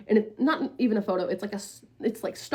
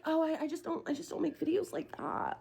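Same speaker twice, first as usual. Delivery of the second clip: high, soft mimicking voice; mock a feeble excuse, small and high; mimicked excuse; 4 semitones higher, 10 dB quieter than usual.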